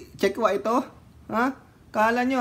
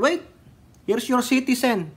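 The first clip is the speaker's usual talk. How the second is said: mock coast guard officer; 6 semitones higher, slower than usual. Mock handover to Chinese coast guard.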